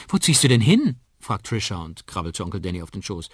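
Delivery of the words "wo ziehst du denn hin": put-on high, loud, curious child voice; little girl. Trisha asks her uncle about moving, high child voice. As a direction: pipe up as a small child.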